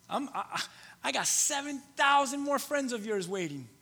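hoge, luide stem van God; God's voice. Acted. Preacher voicing God's reply.

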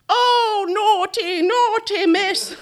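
high scolding cat; tut-tut like a prim old cat. A narrator's reading. Cats scolding naughty Harriet, high cat voice. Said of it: "the cat voice".

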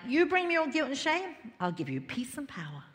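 lightly acted bargain, lifted then gentle; voicing Jesus. Preacher voices Jesus offering a swap, lightly acted. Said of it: "He's like".

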